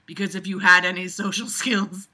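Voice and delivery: reading the line while laughing. Acted. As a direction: read it, breaking into laughter.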